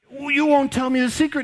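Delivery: high, whiny mock-hurt woman's voice; pouty Delilah. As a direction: play the wounded lover, pleading. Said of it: "And so".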